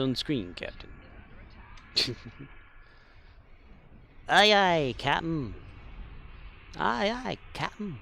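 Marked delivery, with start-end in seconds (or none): 4.3-5.5 loud snappy aye aye; loud crisp acknowledgment. Pretend. Acknowledging captain in role-play. 6.8-8.0 higher, lighter aye aye; a higher mock-officer answer; high acknowledgment. Repeating the acknowledgment in role-play.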